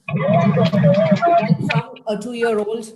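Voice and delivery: put-on playful high child voice; mock toddler voice. Shown as a demonstration. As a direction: stretch it out in a squeaky little-kid voice.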